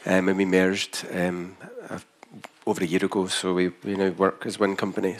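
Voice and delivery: broad Scottish accent. Real, not acted. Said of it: "a very thick Scottish accent".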